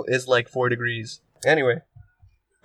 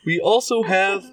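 announcer voice; 2 semitones higher than usual. Acted. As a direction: call out each platform like a fighting game announcer. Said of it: "What is this voice?".

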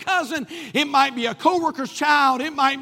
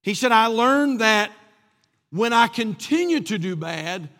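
put-on a toddler owning up to his dad; sheepish little boy; 3 semitones lower than usual. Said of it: "that little sheepish voice came back".

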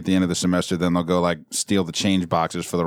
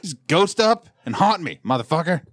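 laughing taunt; 9 semitones higher than usual. Pretend.

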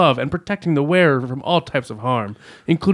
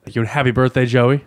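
sarcastic; 3 semitones lower than usual. Real, not acted. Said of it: "He said it so sarcastically".

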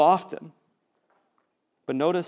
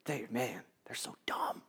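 mock scorn; 5 semitones lower, 13 dB quieter than usual. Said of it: "we're like".

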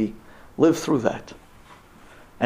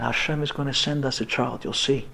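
quiet conviction; 3 semitones lower, 7 dB quieter than usual. Retold or imitated. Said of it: "telling her those strong words".

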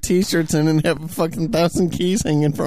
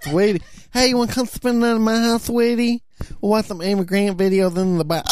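creepy coaxing voice. Retold or imitated. Mocking a creepy church man.

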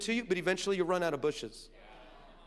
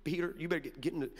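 hissed through clenched teeth; low warning through teeth; through gritted teeth; 3 semitones lower, 5 dB quieter, faster than usual. Retold or imitated. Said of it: "talk through her teeth".

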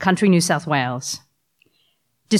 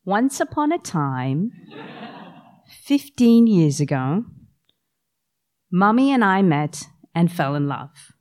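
slow fairy-tale opening; storybook telling. Pretend. To her kids, in a slow storybook voice. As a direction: start it slow, like a bedtime story. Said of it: "the same way that I explain to my kids".

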